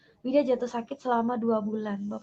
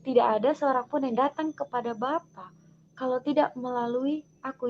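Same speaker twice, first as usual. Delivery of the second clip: loud, firm proclamation of scripture; loud divine voice; 6 dB louder than usual. Retold or imitated. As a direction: proclaim it as God's resounding words. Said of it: "terdengar suara yang nyaring".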